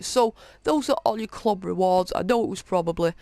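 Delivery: slightly breathless, talking fast; winded from a long read; out of breath. Real, not acted. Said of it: "I'm a little out of breath".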